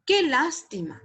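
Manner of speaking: "Qué lástima" as a falling exclamation; exclamation intonation. Shown as a demonstration. Teacher contrasting exclamation with question, exclaiming. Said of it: "Es muy importante cuando, el tono de voz".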